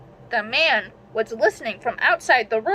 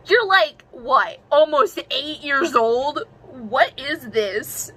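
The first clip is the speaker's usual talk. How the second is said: higher, louder, slow disbelief; incredulous; 4 semitones higher, 3 dB louder, slower than usual. Real, not acted. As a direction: stretch out the disbelief. Mocking her younger self's story.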